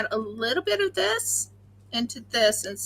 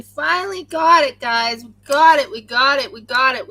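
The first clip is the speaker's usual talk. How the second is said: excited; 7 dB louder than usual. Real, not acted. Excited about perfect swirl.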